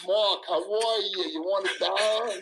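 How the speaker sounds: slow, lightly voiced Brooklyn Jewish father; mock the Brooklyn dad, drawn out. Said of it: "my dad is a Brooklyn Jew".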